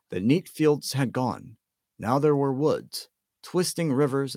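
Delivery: usual speaking voice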